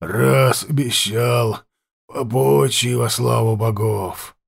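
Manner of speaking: slow, rasping voice from the dark; hoarse voice. Acted. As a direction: rasp it out like an old chieftain. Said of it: "раздался хриплый голос".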